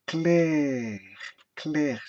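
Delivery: "clair" held as one long syllable; single-syllable demo. Shown as a demonstration. Teacher showing one syllable, "clair" sustained. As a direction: stretch "clair" without breaking it. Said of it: "Il n'y a qu'une seule syllabe".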